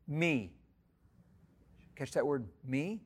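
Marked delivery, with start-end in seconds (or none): 0.0-0.5 high, loud call of Saul's name, then slower; voice of Jesus calling. Acted. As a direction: call out Saul, Saul from heaven, then ask slowly. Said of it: "heard a voice saying to him".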